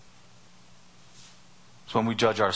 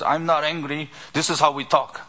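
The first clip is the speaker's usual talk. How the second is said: mildly raised, higher-pitched mock protest; imitating an insistent debater, slightly raised; 4 semitones higher than usual. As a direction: retell a heated debater insisting he is calm. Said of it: "his voice kept getting louder and louder".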